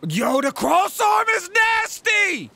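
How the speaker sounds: slow, high hyped yell; excited shout. Real, not acted. Gamer hyping the cross arm move, loud slow yell. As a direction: drag out the hype loudly.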